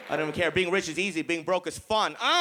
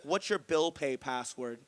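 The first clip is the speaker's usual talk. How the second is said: low, slow, quiet menacing question; a rep dropping the dreaded question; slow ominous agent; 6 semitones lower, 5 dB quieter, slower than usual. Retold or imitated. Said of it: "Then he's like".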